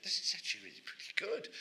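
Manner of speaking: voicing someone quietly amazed at themselves; pleased disbelief. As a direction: marvel softly at your own work. Aspiring writers' delighted thought, voiced.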